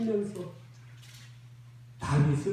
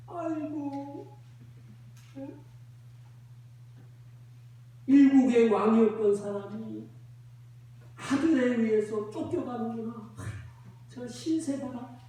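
mocking lament; 2 semitones higher than usual. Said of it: "조롱을 하는 거예요".

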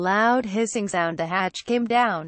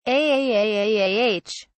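narrated scream. Acted. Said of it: "we screamed the whole way".

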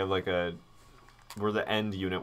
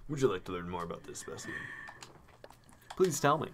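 lightly voiced prim owl; a touch of a formal old curator; Blathers voice. The owl asking the player in game, lightly put-on formality. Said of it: "it's a Blathers voice".

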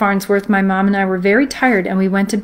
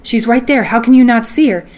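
frantic insistence; 3 semitones higher, 3 dB louder than usual. Retold or imitated. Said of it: "pointing frantically".

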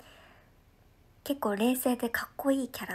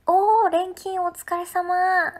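bright greeting; 6 semitones higher, 8 dB louder, slower than usual. Real, not acted. Greeting a viewer warmly.

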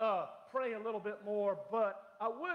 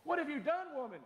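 high, demanding mock rebuke; hammed-up accusing husband; mock scolding husband; 9 semitones higher than usual. Husband scolding wife over expensive shoes, mock outrage.

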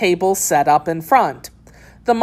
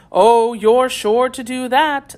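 lightly voiced cat, pitched higher; a hint of a storybook cat; Cheshire Cat voice; 7 semitones higher than usual. A narrator's reading. Cat assuring Alice she will arrive, lightly voiced cat.

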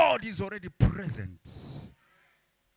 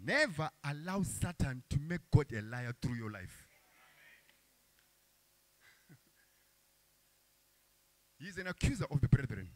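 soft warning; 9 semitones lower, 11 dB quieter than usual. Real, not acted. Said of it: "soft, intimate warning".

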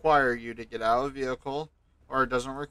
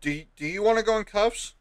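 raised, threatening cop voice; stern warning; 8 semitones higher, 4 dB louder than usual. Acted. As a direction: snap the threat at him. Officer threatens cuffs.

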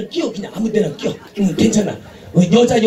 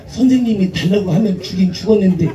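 Chungcheong drawl; 4 semitones lower than usual. Retold or imitated. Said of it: "충청도 여자는 딱 이래요".

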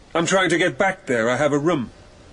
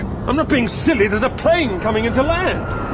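higher, urgent warning; alarmed warning; 6 semitones higher than usual. Acted. Narrator warning Geoffrey of the landing plane, alarmed. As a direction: stop him before the plane hits.

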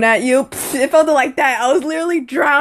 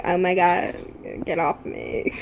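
soft, breathy mocking voice; imitating a gay accent; 5 semitones lower, 7 dB quieter than usual. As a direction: lightly mimic a campy boy. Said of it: "they talk a little funny".

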